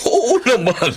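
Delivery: high, laughing reply. Acted. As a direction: say it through a laugh. Father laughing at his joke. (tumatawang sagot)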